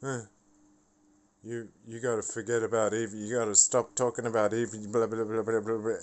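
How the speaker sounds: fast, sneering mimic of the nagging; mocking nagging friends. Mocking the boys who keep nagging about Evie, fast and sneering. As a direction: rattle it off like the nagging you're sick of. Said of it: "And all I'm hearing every day is".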